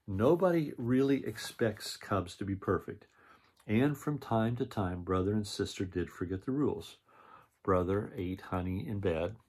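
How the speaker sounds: lively read-aloud narration with character lines; storybook reading. A narrator's reading. Reading a picture book aloud to children, lively storytelling.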